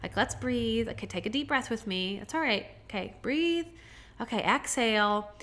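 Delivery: put-on a mother softly soothing a scared child. Mother calming her frightened child: soft, soothing. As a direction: hush a panicking little kid, gently. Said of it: "loving energy from a mother is like".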